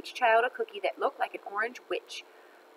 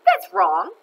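high, loud shout of correction; 12 semitones higher, 9 dB louder than usual. A narrator's reading. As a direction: shout it out from the class. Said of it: "shouted Joy".

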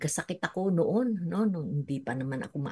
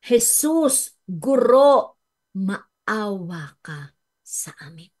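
humble cry for mercy; 2 semitones higher, 7 dB louder, much slower than usual. Retold or imitated. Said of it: "Ano ang sabi lang nila".

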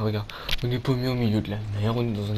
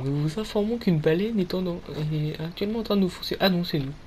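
airline captain announcement; 3 semitones higher than usual. Pretend. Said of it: "Ici, le commandant de bord".

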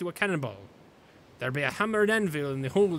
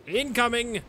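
shouted warning; 7 semitones higher, 3 dB louder, slower than usual. Acted. Pirate shouts warning of attack.

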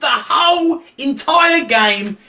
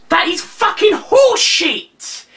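angry shout; 8 semitones higher, slower than usual. Real, not acted.

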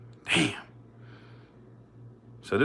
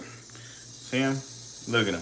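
whispered; 2 semitones higher, 8 dB quieter, slower than usual. Real, not acted. Pointing out the snake.

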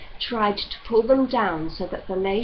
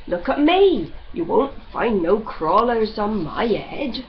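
put-on grumbling old man; 3 semitones higher, 5 dB louder than usual. Judd rants in dialect.

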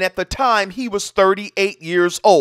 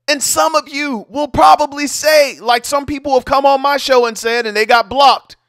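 heated rant; 3 semitones higher than usual. Real, not acted. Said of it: "I just lose it".

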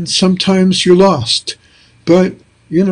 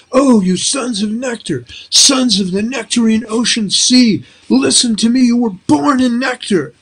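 reciting verse; 7 semitones higher than usual. Retold or imitated. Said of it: "they're telling me".

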